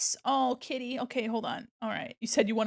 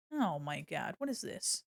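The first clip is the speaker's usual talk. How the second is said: usual speaking voice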